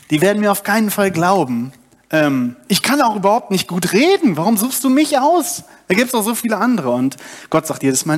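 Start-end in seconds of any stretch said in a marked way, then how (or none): 0.1-6.9 hoch und hastig abwehren; aufgeregter Protest. Acted. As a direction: flehend sich herausreden. Mose diskutiert mit Gott. (Mose sträubt sich gegen Gott, hoch und aufgeregt)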